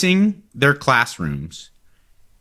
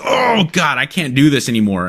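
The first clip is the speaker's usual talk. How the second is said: exasperated groan. Retold or imitated. Retelling the assistant kneeling, mock exasperated. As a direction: complain like your knees are giving out. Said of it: "every time she's like".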